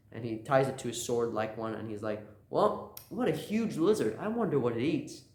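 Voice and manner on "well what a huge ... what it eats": lightly voiced goofy hero; goofy Luffy-ness. Ryuma wondering about the huge lizard, lightly goofy. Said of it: "that goofy Luffy-ness he has".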